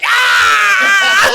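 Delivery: high, loud hype man yell; hype man shout. Retold or imitated. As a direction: scream it like a hype man hyping the crowd. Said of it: "and the dude like".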